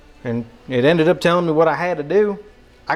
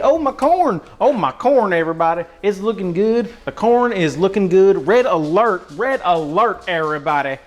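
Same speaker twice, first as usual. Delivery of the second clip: mock excited alert; 3 semitones higher than usual. Hammed-up alarm over the cooking corn.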